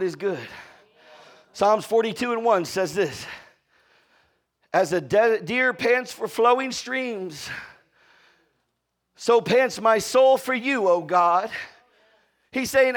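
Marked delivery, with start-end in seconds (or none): 4.7-11.5 slow, drawn-out psalm reading; solemn read of the scripture. Acted. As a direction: linger on each word of the verse. Reads the psalm aloud.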